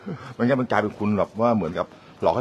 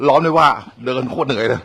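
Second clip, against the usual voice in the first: worn out; 4 semitones higher, 6 dB louder than usual. Real, not acted.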